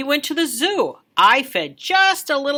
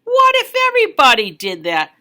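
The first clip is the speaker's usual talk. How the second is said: louder, firm scolding; stern patrolman; 3 semitones higher, 6 dB louder than usual. Acted. Patrolman scolding the kid who littered, firm. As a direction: tell the kid off like a traffic cop. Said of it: "pulled us over said".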